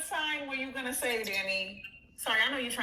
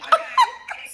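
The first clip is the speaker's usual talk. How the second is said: laughing shriek; 15 dB louder than usual. Real, not acted. Laughing shriek at friends' teasing.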